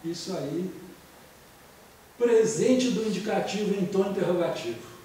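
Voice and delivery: usual speaking voice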